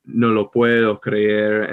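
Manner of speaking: slow, careful "No lo puedo creer"; plain version; plain Spanish take. Shown as a demonstration. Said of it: "if I were saying".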